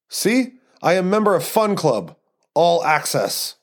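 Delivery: lightly voiced Eastern European man; proud boast in an Eastern European accent. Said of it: "terrible Eastern European accent".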